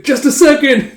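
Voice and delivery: put-on high-pitched, hurried little boy; urgent squeak. Boy dashing to the ship's edge, urgent. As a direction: squeak it out in a rush.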